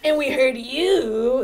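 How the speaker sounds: slow, drawn-out flirty delivery; flirtatious. Acted. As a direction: play it lightly flirtatious, taking your time. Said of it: "like, flirtatiously".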